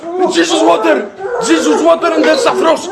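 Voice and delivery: very high, loud laughing cries; laughing triumph. Real, not acted. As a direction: cheer the win through laughter.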